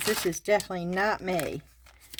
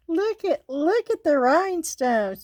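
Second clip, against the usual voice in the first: higher, eager showing off; excited; 9 semitones higher, 4 dB louder than usual. Real, not acted. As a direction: point them out with glee. Showing off the rhinestones.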